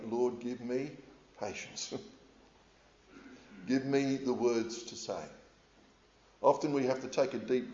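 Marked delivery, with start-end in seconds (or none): 0.1-5.2 soft, slow prayer, patience nearly whispered; quoted prayer. Retold or imitated. Preacher voicing his own prayer for patience, soft and slow. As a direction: plead quietly with the Lord, half laughing. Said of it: "you may need to pray".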